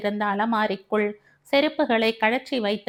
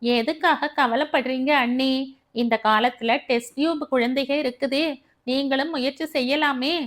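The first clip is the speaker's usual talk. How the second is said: sweetly mocking, a bit higher; mischievous mockery; 4 semitones higher than usual. Sister-in-law mocks Savitha, sly fake concern. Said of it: "விஷம சிரிப்பு".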